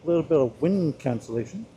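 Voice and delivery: muffled through a helmet visor; talking from inside a closed helmet; inside a motorcycle helmet. Real, not acted. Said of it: "Let me close this visor".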